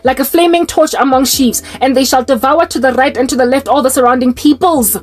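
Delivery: measured Bible reading voice; solemn recital of Zechariah; scripture reading. Acted. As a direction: read it like a prophecy from the pulpit. Reads scripture prophecy aloud.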